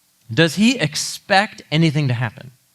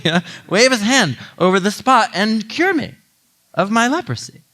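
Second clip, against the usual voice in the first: mock-offended rant, rising to higher protests; a hammed-up indignant general, voice jumping higher; indignant Naaman; 4 semitones higher than usual. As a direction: play the miffed general ranting. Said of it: "He's ticked".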